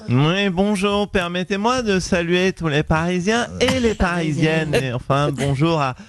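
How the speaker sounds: a hint of a snobbish Paris mayor talking down; Anne Hidalgo impression. Mayor answering the radio host, mildly haughty. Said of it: "Bonjour Anne Hidalgo".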